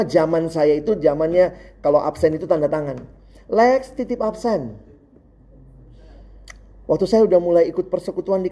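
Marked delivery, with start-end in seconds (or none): 3.5-4.7 mock calling out. Imitates classmate calling out to him.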